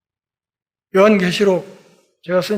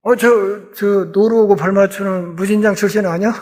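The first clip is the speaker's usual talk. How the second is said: scornful jeer; 3 semitones higher, 4 dB louder than usual. Retold or imitated. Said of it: "깔보고 얕잡아보는 표현이에요".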